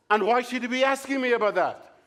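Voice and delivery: a husband growing suspicious on the phone; indignant husband. Retold or imitated. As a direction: bristle at the stranger's questions. Acted indignant called man.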